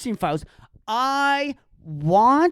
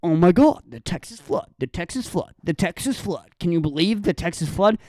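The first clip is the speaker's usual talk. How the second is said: mocking outsiders; 4 semitones lower, faster than usual.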